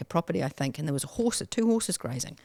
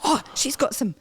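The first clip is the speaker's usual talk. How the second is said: retold excitement; 9 semitones higher than usual. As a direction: squeal over your first six bucks. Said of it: "I was so excited".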